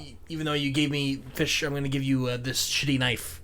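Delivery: mock a curt refusal under your breath; quiet, offhand imitation of a grudging seller; dismissive merchant. Voicing the merchant's dismissive reply.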